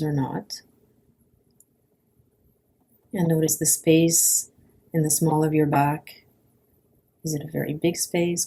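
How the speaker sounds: calm, unhurried guidance with long pauses; guided body scan. Acted. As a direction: guide a lying listener gently through the body, pausing between phrases.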